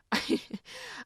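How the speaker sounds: a high, breathy burst of laughter; short laugh. Real, not acted. Laughing at her own sugar confession, high giggle. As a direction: laugh at yourself, high and quick.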